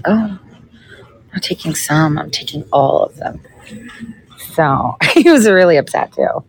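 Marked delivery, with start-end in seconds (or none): 0.0-3.4 sassy quote that drops softer; sassy replay. Retold or imitated. Repeating to viewers what she told the GOP guy, sassy. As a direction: replay the put-down, softer at the end. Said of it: "I literally said it like that".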